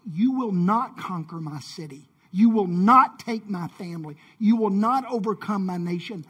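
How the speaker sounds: lightly acted warrior's defiance, leaning on each NOT; defiant warrior. Warrior to invaders before battle, mildly acted defiance. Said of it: "a warrior would".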